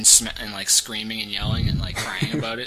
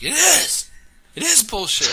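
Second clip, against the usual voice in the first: whiny outburst; 11 semitones higher than usual. Retold or imitated. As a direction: wail it like a sore loser. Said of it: "I'm like".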